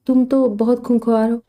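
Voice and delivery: mild playful tease, slowed down; a light mischievous jab to cheer him up; teasing. Acted. Aunt teasing her worried nephew, gently mischievous. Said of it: "منتشا نے شرارت سے کہا".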